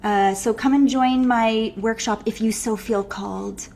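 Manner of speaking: hesitant, dreamy sales pitch; mock the vague healer who can't say it. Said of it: "what do you do?".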